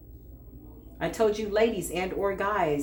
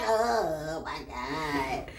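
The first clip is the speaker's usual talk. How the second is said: slow awed oh my god; 2 semitones lower, 4 dB quieter, much slower than usual. Retold or imitated. Retold shocked reaction, drawn out.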